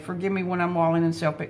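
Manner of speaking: fast repeat of the line to herself; rereading mother's prayer quickly for herself. Shown as a demonstration. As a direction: rush the line as a reminder to herself. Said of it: "I need to just hear this today".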